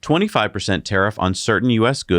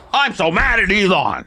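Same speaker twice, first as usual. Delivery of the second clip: high-pitched pretend grievance; mock outrage; 10 semitones higher than usual. Host joking about taxpayer savings, mock outrage. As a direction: whine in hammed-up indignation.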